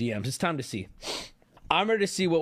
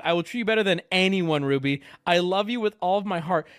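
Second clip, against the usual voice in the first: louder, higher mock love plea; hammed-up devotion; 4 semitones higher, 4 dB louder than usual. Streamer reads a lovesick man's texts to Ruby, hammed-up devotion. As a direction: gush it like a desperate admirer.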